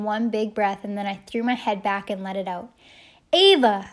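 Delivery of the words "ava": loud, high call into the night; big drawn-out holler; shouted. A narrator's reading. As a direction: throw your head back and shout it out. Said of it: "I shouted".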